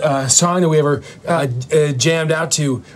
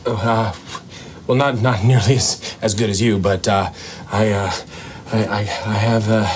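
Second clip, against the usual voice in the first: a hint of a Caribbean Rasta accent; lightly put-on Caribbean accent; 4 semitones lower than usual. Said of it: "Why is he talking like a leprechaun".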